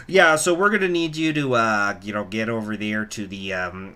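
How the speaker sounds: put-on a slipping, half-hearted Canadian accent; accidental Canadian accent on the scammer; bad Canadian accent. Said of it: "I went Canadian there, no, that was not a good accent".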